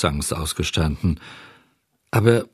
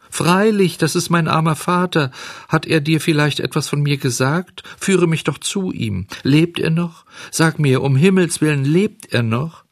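high-pitched, eager pleading; urgent excitement; 8 semitones higher than usual. Acted. Puppet begging the pigeon for news of his father, urgent. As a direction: press anxiously for news.

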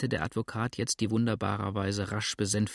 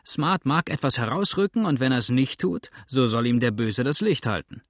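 mustache twirling villain; 2 semitones higher, 4 dB louder than usual. Acted. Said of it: "sagte der Narbige".

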